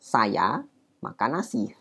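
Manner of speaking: slow "saya", clear pause, then "makan nasi"; deliberate demo with "saya" split off from "makan nasi"; Japanese-style topic intonation. Shown as a demonstration. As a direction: say "saya", wait a beat, finish slowly with "makan nasi". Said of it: "Gitu jadinya".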